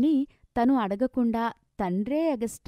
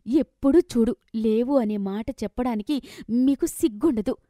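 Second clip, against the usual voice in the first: louder, higher angry cry; angry shout; 4 semitones higher, 5 dB louder than usual. Acted. Daughter yelling at her mother about money, loud. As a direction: throw it at her, raised voice.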